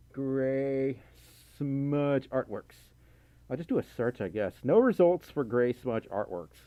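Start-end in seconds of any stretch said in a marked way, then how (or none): 0.1-2.7 very slow, each word stretched; drawn-out reading. Real, not acted. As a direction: sound it out slowly while typing. Reads out name while typing it.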